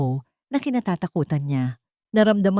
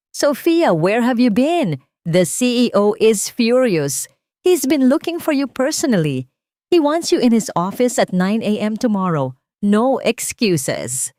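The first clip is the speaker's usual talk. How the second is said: louder and higher, pressing and stern; urgent boss message; 5 semitones higher, 6 dB louder than usual. Acted. Supervisor warning Sofia that the CEO is furious, loud and urgent. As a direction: read it like an angry supervisor.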